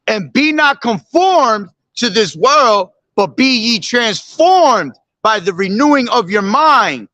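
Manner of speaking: solemn measured recitation of the verse; scripture reading. Acted. Preacher reciting scripture to his listeners, solemn. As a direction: read it out like holy writ.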